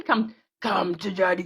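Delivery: slow, drawn-out spooky taunt; song impression. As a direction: imitate a creepy song vocal, stretching it. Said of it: "a recording artist".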